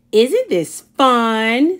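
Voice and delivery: slow, drawn-out mild gloat; gloating girl. Acted. Sophie gloating to silent Wendell, slow mild glee. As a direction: turn the tables, savouring it.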